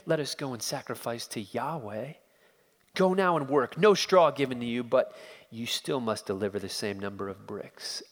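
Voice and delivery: mild cold contempt; a touch of cold dismissal; dismissive. Acted. Pharaoh dismissing the foremen, mild cold contempt. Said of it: "perhaps with a dismissive smile".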